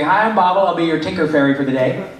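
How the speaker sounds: put-on light Scottish accent, chirpy fairy greeting; a Scottish fairy greeting the crew at Disney; Scottish fairy Bobble. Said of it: "I do a Scottish character called Bobble".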